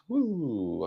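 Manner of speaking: long swooping "woo"; playful sliding whoop; drawn-out woo. Real, not acted. Playful exclamation, long pitch glide.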